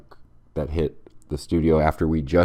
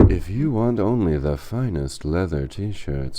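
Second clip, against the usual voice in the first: mock ad read.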